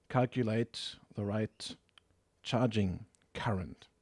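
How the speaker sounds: usual speaking voice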